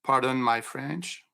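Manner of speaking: English phrase with a French accent. Shown as a demonstration. French speaker repeats using American words.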